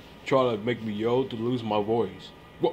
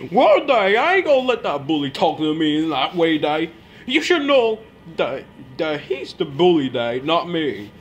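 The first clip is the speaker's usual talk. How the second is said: yelling; 3 semitones higher, 5 dB louder than usual. Acted. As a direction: shout him down, pitch way up. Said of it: "stop yelling at me".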